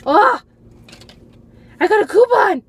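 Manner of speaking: high, loud joyful shout; thrilled about a coupon; excited squeal. Real, not acted. Finds a coupon.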